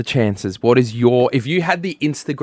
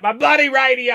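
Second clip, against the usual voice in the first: grumpy listener; 13 semitones higher, 3 dB louder than usual. Pretend. Listeners mocking radio complaint.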